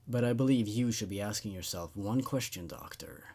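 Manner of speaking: lightly voiced low monster; a hint of a looming creature; deep creature voice. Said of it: "The voice grew deeper".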